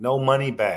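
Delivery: put-on firm, no-nonsense, stern, serious voice. Acting out sitting down across from him, in a stern voice. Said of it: "stern voice".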